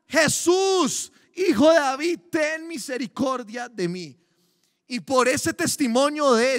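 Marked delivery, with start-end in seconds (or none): 0.1-4.1 desperate cry. Retold or imitated. Blind beggar shouting for Jesus's mercy, a loud desperate plea. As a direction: cry out for mercy over the crowd. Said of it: "le hicieron a él gritar".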